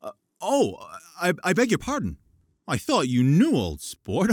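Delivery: host embarrassed by the guest's mistake; flustered apology. Acted. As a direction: scramble to apologize. Gatsby flustered by the blunder.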